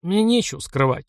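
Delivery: ordinary delivery, nothing marked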